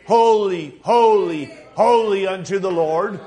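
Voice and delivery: slow, drawn-out cries of holy; imitated hollering. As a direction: holler it like worship before the throne.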